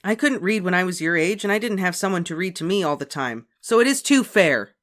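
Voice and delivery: high, loud arguing big sister. A narrator's reading. Beezus arguing with Ramona, loud and heated. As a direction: argue back hard. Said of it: "argued Beezus".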